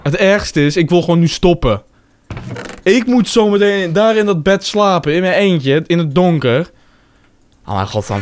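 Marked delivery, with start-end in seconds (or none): 0.0-6.7 scared. Real, not acted. Frightened about sleeping alone.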